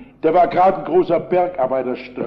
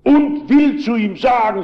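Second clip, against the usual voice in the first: retold shouting; 5 semitones higher than usual. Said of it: "so schrie der Mann".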